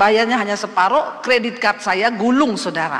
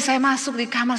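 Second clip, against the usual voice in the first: ordinary talk, nothing marked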